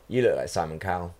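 imitating a kid's blunt deadpan. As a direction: state it low and level, no expression. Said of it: "Just like that, like, pure".

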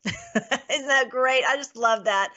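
slow, laughing through the words; laughing delight. Real, not acted. To her viewers about the prophecy, laughing slowly. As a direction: laugh it out with real joy.

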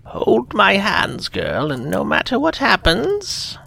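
high, slow, urgent; old holy woman. Acted. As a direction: command her gravely. Old seer voiced in story.

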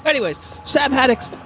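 A singer impression. Acted. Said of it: "it's me, David Bowie".

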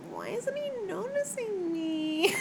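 high, whiny mock voice of a lovesick girl; mock whiny Feyre. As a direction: pitch it way up like a pining girl. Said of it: "But then she's like".

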